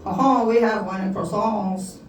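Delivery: put-on drawn-out French accent; comic French guy's accent. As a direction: play a Frenchman, slowly. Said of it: "The French guy would be like".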